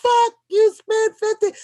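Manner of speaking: loud high shocked what the fuck; shocked outburst. Retold or imitated. Opening the huge card bill, loud shocked outburst. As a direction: blurt it out in disbelief at the bill. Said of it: "I was like".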